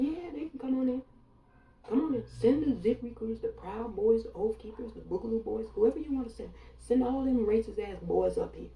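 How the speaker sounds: loud, high, mocking "come on in"; loud taunting dare. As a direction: call the enemy in with a cocky shout. Taunting invitation to enemies, calling out.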